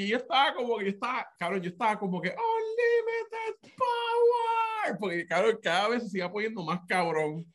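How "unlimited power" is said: slow, drawn-out, high mock villain line; hammed-up evil power boast. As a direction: stretch it out like a movie villain. Quoting villain line mid story.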